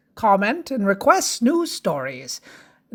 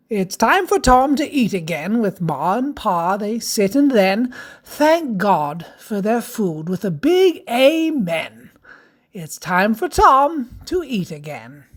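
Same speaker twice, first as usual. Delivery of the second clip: lilting rhymed storybook read; sing-song rhyming verse; children's story narration. Acted.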